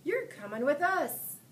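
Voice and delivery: put-on captain telling the boy he's coming; pirate captain. A narrator's reading. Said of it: "Braidbeard told me".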